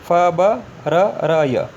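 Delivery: फ ब र र य spaced out, very slow; slow consonant reading. Shown as a demonstration. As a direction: pronounce फ ब र र य one letter at a time. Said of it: "इसे ऐसे पढ़ेंगे". (धीरे-धीरे अक्षर पढ़ना)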